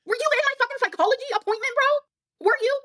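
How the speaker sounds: high, indignant yelling back; real high-pitched outrage; heated high protest. Real, not acted. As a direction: shout it in angry disbelief. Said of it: "heated argument over diagnosis".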